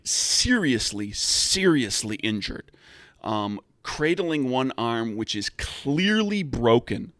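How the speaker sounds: slow, drawn-out dramatic narration; game master scene setting. Acted. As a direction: set the scene slowly, leaning on the grisly key words. Game master narrates injured man's entrance.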